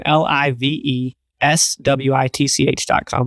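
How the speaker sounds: letter by letter, slowly; slow spelling of the web address; spelled out slowly. Shown as a demonstration. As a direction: spell it out clearly for listeners. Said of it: "Website is live switch dot com".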